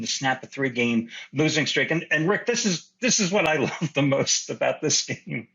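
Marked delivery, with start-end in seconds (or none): 2.4-5.5 laughing. Real, not acted. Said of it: "I can't even say this with a straight face".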